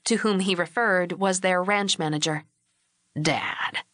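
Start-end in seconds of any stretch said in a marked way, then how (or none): 3.2-3.8 gentle rebuke. A narrator's reading. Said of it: "a gentle rebuke".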